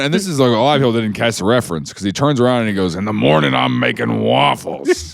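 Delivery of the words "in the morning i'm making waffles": smoker donkey voice. Retold or imitated. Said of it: "The donkey sounds like a smoker".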